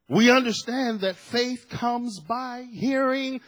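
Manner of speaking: slow, drawn-out scripture proclamation; emphatic preaching. Real, not acted. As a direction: hammer home each key phrase. Preaches at full force.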